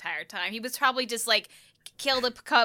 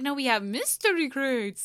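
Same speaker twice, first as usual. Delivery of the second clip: slow, higher, drawn-out mystery crates; mock corporate euphemism; 4 semitones higher, slower than usual. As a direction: parody a company's spin, stretching the words. Mocking the company's euphemism.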